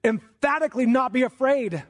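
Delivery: high, forceful stress on "not be afraid"; "emphatically not be afraid" punched word by word; emphatic. Real, not acted. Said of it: "God commands us to emphatically".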